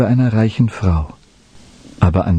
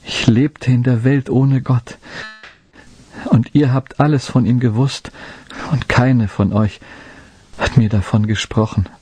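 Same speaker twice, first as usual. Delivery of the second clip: breaking voice; 4 semitones higher than usual. Acted. Dying boy telling the women they never spoke of God, voice breaking. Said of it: "sagte er mit brechender Stimme".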